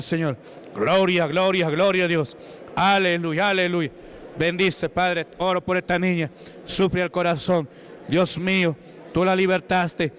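preacher's exorcism in full cry; fervent shouted prayer. Acted. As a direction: pray at full force and cast the devil out. Leads loud prayer again.

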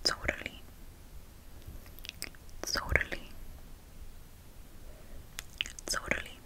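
totally with the first T hissed like an S; miami accent. Shown as a demonstration. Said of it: "In Miami, we would say".

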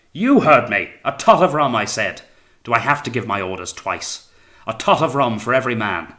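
loud, insistent repetition; impatient shouted order. A narrator's reading. Captain repeating the rum order to purser, impatient shout. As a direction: hammer the order home with impatience.

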